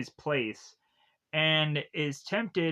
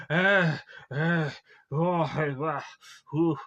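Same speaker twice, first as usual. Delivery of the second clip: mock gasping, short breathy ahs and oohs; panicked gasps; 3 dB louder, much slower than usual. Claustrophobic man in a tunnel, mock panicked gasping. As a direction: gasp like the tunnel walls are closing in. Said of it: "he's starting to breathe".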